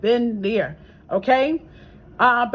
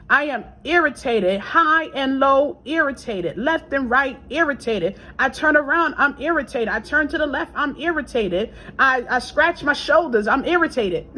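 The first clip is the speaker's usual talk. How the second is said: mock irritation; 2 semitones higher than usual. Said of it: "right now I'm irritated".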